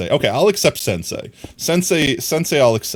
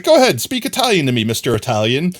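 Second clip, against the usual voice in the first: mock German officer; 3 semitones higher, 4 dB louder, faster than usual. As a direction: play the smug officer, pitched up. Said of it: "and he's like".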